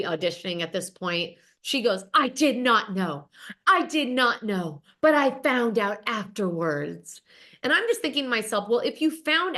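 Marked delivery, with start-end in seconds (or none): 2.1-7.2 slow, theatrical mock-wounded line; hammed-up drama. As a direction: drag it out like she's auditioning. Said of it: "Camille goes full drama".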